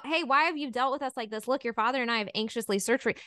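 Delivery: a mild parental telling-off that speeds up; mildly chastising mom. Retold or imitated. Mary to young Jesus after searching for him, mildly chastising. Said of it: "his mom kind of chastises him".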